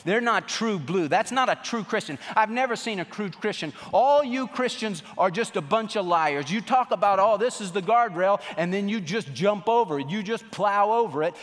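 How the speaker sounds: hammed-up indignation at hypocrites; scornful accusers. Preacher voicing unbelievers accusing Christians of lying, mock indignation. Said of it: "And they just said".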